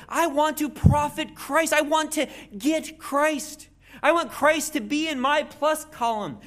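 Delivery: high and loud, grasping for Christ; eager. Retold or imitated. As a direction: sound hungry to add to your column. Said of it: "He's like".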